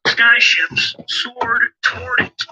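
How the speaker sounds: slow, grand storyteller reading; story narration. Acted. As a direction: read it like an epic tale. Reads Anunnaki story aloud.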